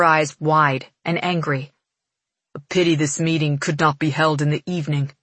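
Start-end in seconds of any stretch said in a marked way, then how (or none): 2.6-5.1 lightly voiced cold young man, quick; a hint of a cold prince murmuring. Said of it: "Ptolemus murmurs".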